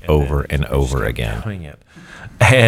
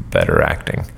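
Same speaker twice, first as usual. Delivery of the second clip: much lower, dry and flat-toned; deadpan director; 12 semitones lower than usual. Retold or imitated. Director Stanley dryly instructing the actor, low deadpan. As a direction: say it low and unbothered. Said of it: "Stanley leans up front of the camera and goes".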